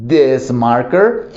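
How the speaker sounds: "this marker" said very slowly; slow demonstration. Shown as a demonstration. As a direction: show the nearby marker slowly. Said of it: "puedes tener cerca". (despacio, marcador cercano)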